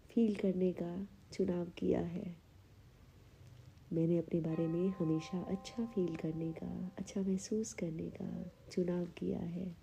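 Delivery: measured affirmation delivery with long pauses; unhurried meditation-guide reading; guided affirmations. Acted. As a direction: state each affirmation calmly, leaving room to repeat it. Leads guided self-esteem affirmations.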